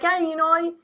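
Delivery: put-on high-pitched, pushy Jewish mother accent; stereotypical Jewish mom. Jewish mom wants grandchildren, hammed-up Jewish accent. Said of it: "the Jewish moms will be like".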